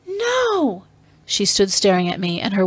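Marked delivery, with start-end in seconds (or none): 0.1-0.8 very high, drawn-out cry of denial; horrified cry. Acted. Dalisa hearing of the Catman's attack, high horrified cry. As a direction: cry out in disbelief.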